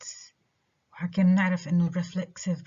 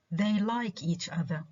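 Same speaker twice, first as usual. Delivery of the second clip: "like" stressed, "each other" left unstressed; 3 dB quieter than usual. Shown as a demonstration. Teacher showing unstressed "each other", stress only on "like". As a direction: make "like" the only stressed word. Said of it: "the only stressed word is the verb like".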